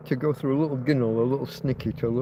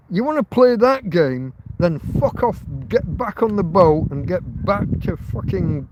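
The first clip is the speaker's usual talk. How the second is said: angry rant. Real, not acted. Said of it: "Can you tell I'm angry?".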